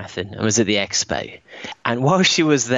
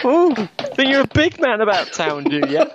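high, camp, mocking sarcasm; hammed-up catty drag queen put-down; bitchy drag queen; 12 semitones higher than usual. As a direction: taunt in an over-the-top camp falsetto. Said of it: "I went into a bitchy drag queen".

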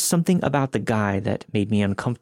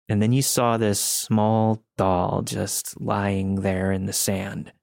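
slow, eerie storyteller stranger; creepy slow voice; slower than usual. Retold or imitated. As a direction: draw it out slowly to unsettle. Creepy stranger describes doll.

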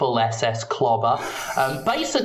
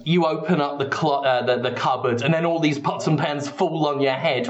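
ordinary delivery

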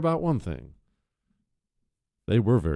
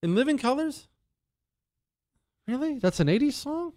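high disbelief; 12 semitones higher, 4 dB quieter than usual. Real, not acted. Surprised at the song's age.

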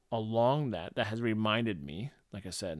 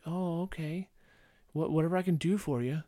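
eager people-pleaser voice; 6 semitones higher than usual. Shown as a demonstration. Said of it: "You can even hear my voice".

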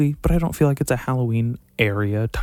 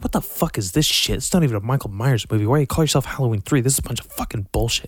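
replaying childhood outrage at the movie, fast and pitched up; kid fury; 2 semitones higher, faster than usual. Remembering being a pissed-off kid at Halloween three, mock outrage. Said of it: "I was like".

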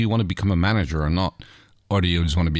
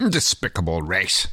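spat; slower than usual. Acted. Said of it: "spat Rigel".

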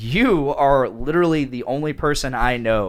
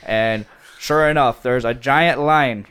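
put-on Wisconsin accent. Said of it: "in a Wisconsin accent".

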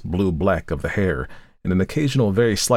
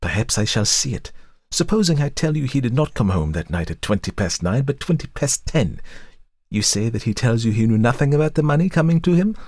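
vehement, climbing higher as it goes; 8 semitones higher than usual. A narrator's reading. Wife threatens to contradict her husband's story, vehemently. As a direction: press harder with each supposition. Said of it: "continued vehemently".

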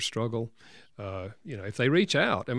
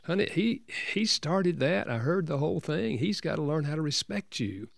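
voicing his wife higher, reassuring him; wife comforting her upset husband, higher reassuring voice; wife's voice; 6 semitones higher than usual. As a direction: lift the pitch for the consoling wife. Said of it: "she said".

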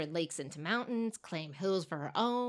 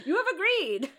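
mock sinister; 10 semitones higher, 5 dB louder than usual. Mock creepy aside.

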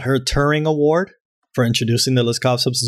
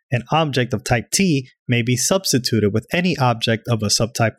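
rushing through without a breath; all in one breath. Shown as a demonstration. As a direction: read the whole definition in one breath. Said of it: "read this in one breath".

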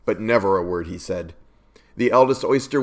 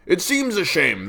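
higher, mock-regretful walrus; 8 semitones higher than usual. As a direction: fake pity, walrus style. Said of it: "the walrus said".

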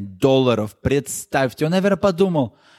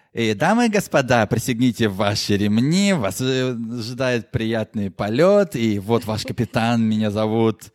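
lower, calm cabin address; airline captain announcement; 5 semitones lower than usual. Pretend. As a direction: announce to passengers like a pilot. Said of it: "давай представим".

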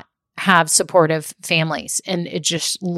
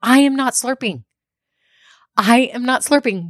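exasperated; 5 semitones higher than usual. Retold or imitated. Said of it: "I'm like".

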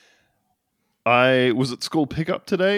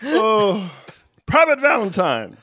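drill sergeant shouting; 6 semitones higher, slower than usual. Pretend. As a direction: call out the private like a drill sergeant. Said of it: "I'll be your drill sergeant".

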